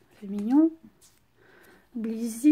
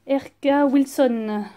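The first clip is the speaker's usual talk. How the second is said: English name in a French accent; slow, poor English accent from a French speaker; bad English accent; slower than usual. Real, not acted. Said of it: "j'ai un accent anglais pourri".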